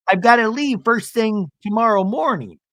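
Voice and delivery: high-pitched husband imitation; Seth, insistent. Seth telling wife he's leaving, high mimicry. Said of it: "Seth goes".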